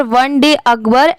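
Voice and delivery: words rushed together with no pause after the comma; run together. Shown as a demonstration. Teacher shows students the wrong way, words run together. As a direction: blur it into one breath, like a learner. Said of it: "ऐसे नहीं".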